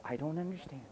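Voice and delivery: mock stubborn chanting; mock repeated excuse. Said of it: "that's what I hear from people".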